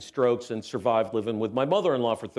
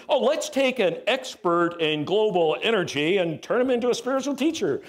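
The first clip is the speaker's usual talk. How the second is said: God joking; 7 semitones higher than usual. Retold or imitated. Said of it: "real funny sense of humor".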